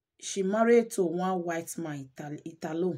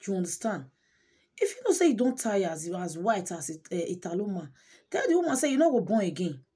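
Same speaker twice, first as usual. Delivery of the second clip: raised-voice indignant rebuke; indignant scolding; 3 dB louder than usual. Real, not acted. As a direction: tell the absent husband off. Storyteller scolds the husband directly.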